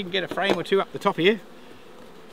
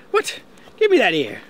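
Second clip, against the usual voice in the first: mock sharp demand; 4 semitones higher, 6 dB louder than usual. Wife grabbing the jar.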